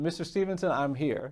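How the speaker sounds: proud announcement. Retold or imitated. Old woman in court to her lawyer, proudly declaring herself. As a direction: announce yourself with pride. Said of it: "She said".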